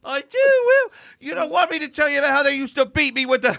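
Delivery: high laughing mock Irish lass; Irish girl voice, laughing. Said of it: "She's like".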